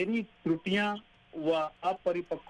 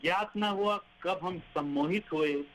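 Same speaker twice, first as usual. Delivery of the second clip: poem recitation. Acted. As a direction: read each line like a verse.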